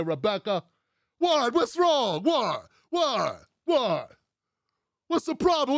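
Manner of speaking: baffled, indignant "What?" in falling yelps; mock old-school politician. Old-school boss to offended staff, mock-baffled protests. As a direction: play him oblivious and put-upon. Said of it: "That's how he sounds".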